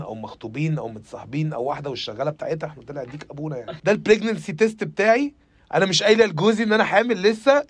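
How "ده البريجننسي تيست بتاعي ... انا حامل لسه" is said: influencer parody. Retold or imitated. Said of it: "في بنات اللي بتعمل كونتنت".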